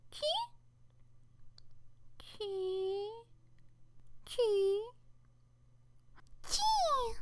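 high squeaky mascot calls; tiny creature squeak. Acted. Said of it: "that was all my voice acting".

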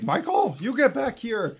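high yelling call. Retold or imitated. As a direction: call him back sharply from across the airport. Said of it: "Miss Grober runs out and is like".

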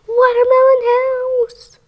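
high, bright announcing voice; grand reveal. Pretend. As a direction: announce it like a prize.

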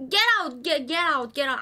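angry shouting. Real, not acted. Shooing an NPC.

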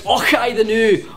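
slow, hammed-up Scottish catchphrase; mock Scottish shout. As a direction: imitate someone putting on a Scottish accent. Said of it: "when somebody shouts".

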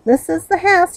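loud, high call to someone outside. Acted. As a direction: call it across the yard. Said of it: "he called".

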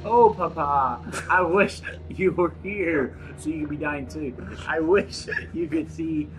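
mock-mournful Russian accent. Doomed note writer to Papa, mock Russian accent. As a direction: lament in a put-on Russian accent.

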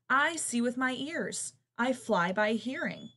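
high, loud, slow piping; piping bat. Acted. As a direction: pipe it like a tiny bat. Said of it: "piped the bat".

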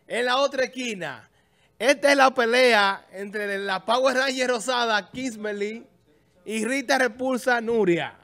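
booming fight announcer; lucha libre announcer. Acted. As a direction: call the fighters to the ring.

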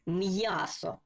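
м'ясо with a clear y-glide after м; м'ясо as "m-yaso", carefully sounded; with apostrophe. Shown as a demonstration. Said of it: "читаємо відразу разом з апострофом".

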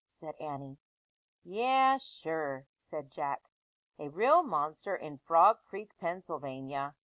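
put-on lively read-aloud voice for children; story narration. Teacher reading a chapter book aloud to her class.

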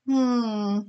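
small high whimpered hum; little whimper. A narrator's reading. Scared little pig behind the hay, whimpering. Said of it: "they heard a little whimper".

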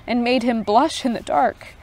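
even storytelling read; story narration. A narrator's reading. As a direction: read the tale aloud for listeners. Reads Tolkien story aloud.

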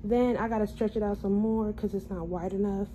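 talking with tight new braces; speech a bit off from braces; sore after braces tightening. Real, not acted. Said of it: "excuse my speech. I just got my braces tightened".

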